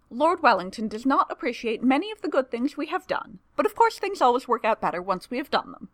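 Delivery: lightly voiced reasonable dragon. A narrator's reading. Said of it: "Temeraire replies reasonably".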